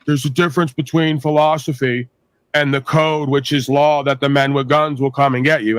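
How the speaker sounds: flat, droning official voice; mock a droning bureaucrat; monotone anthem. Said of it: "my version of his, you know, monotone anthem".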